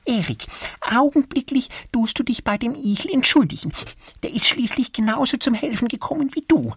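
high bossy squirrel voice; scolding squirrel sister. Acted. Erika scolds Erik to apologise to the hedgehog. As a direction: tell your brother off firmly.

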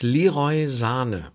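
Leroy Sane said slowly with the wrong stress; Leroy Sane mispronounced, Sane like the word for cream; misplaced stress. Retold or imitated. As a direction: stretch Sane as German "SAH-ne", stressed at the front. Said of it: "ignorierte die richtige Betonung".

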